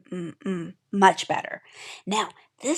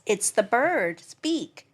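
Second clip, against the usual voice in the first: slow reveal; much slower than usual. Shown as a demonstration. Teacher revealing the bird's beak letter, very slow. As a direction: draw it out very slowly.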